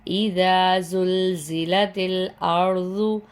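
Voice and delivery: the ز in زلزلت pronounced clearly and firmly, slowly; clear zaa sound. Shown as a demonstration. Teacher showing students how to read زلزلت, a slow, firm ز. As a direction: give زلزلت a crisp, firm ز. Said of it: "زا کی آواز کو ظاہر کر کے پڑھیں گے".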